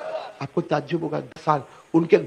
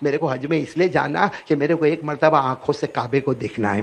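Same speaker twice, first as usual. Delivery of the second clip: tearful plea; 4 semitones lower, 4 dB quieter than usual. Retold or imitated. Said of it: "روتے روتے کہا".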